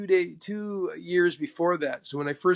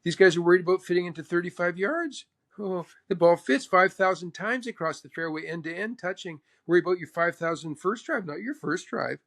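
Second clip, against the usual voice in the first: lightly voiced Mo impression; 3 semitones higher than usual. Golfer reassures worried player that the ball fits, lightly imitated. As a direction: say it as an imitated old hand dismissing worriers. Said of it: "he just looked at me and he goes".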